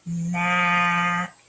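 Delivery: stretched nap; blended nap. Shown as a demonstration. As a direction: blend it slowly. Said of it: "Try it with me".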